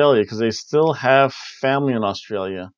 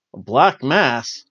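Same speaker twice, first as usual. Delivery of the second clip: puzzled question; much slower than usual. Real, not acted. Realizing the religious theme, a slow puzzled question. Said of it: "Wait a second".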